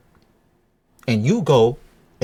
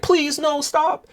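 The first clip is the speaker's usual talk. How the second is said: mimicking girlfriend; 12 semitones higher, much slower than usual. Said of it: "she's like".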